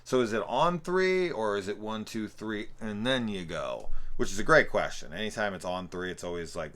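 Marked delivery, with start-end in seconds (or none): 0.0-3.9 imitated questioning. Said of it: "'cause he's like".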